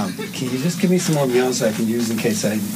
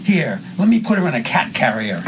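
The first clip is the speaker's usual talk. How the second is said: slightly higher, line-reading meanness; mildly mean; 4 semitones higher, 4 dB louder than usual. Shown as a demonstration. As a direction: model a mean remark. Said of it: "you say this kind of meanly".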